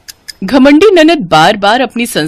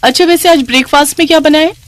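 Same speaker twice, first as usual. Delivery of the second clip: put-on higher, lively young sister-in-law voice; lightly voiced sister-in-law; 5 semitones higher than usual. Sister-in-law asks for coffee and breakfast, casual and demanding.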